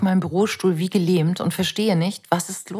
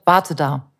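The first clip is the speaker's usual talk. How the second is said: mother's command; 3 semitones lower than usual. Retold or imitated. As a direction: tell the child to stay put. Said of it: "dem die Mama gesagt hat".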